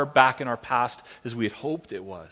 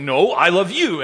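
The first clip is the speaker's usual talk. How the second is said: louder playful one-upping; mock-childish counter; a hint of a competitive two-year-old; competitive dad; 2 semitones higher, 7 dB louder than usual. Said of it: "I feel like saying".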